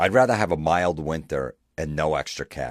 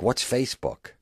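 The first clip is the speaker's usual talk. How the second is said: put-on confused kid; 8 semitones higher than usual. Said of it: "the kid's gonna be like".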